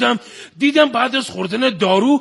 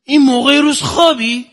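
mock astonishment; 4 dB louder than usual. Husband finds his wife asleep in hospital, acted astonishment. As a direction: act out loud, theatrical amazement. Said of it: "با تعجب میگه".

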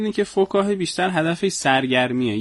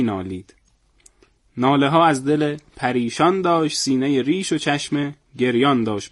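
measured recital with pauses between half-lines; poem recitation. Acted. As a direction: recite it in earnest, saving the punchline. Recites a comic poem in earnest. (شعرخوانی با لحن جدی)

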